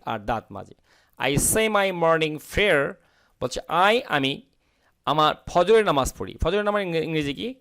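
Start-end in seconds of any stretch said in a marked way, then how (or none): 1.2-2.9 slow, clear model sentence; slow model reading. Shown as a demonstration. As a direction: read it out slowly for learners. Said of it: "teacher reads model sentence". (ধীরে ধীরে পড়া বাক্য)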